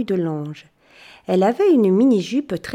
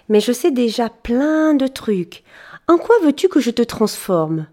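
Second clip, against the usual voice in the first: sweet and chatty, eager to help; fairy thanking the boy, bubbly; cheerful fairy; 3 semitones higher, 3 dB louder than usual. Acted. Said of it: "elle m'a dit".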